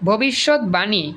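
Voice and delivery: slow ভবিষ্যৎবাণী with a clear b; correct pronunciation. Shown as a demonstration. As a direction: say ভবিষ্যৎবাণী slowly as bhobishot-bani. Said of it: "ব উচ্চারণ হইছে".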